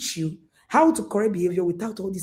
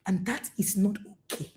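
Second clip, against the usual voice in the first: calm parent voice; 4 dB quieter than usual. Shown as a demonstration. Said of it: "why not say".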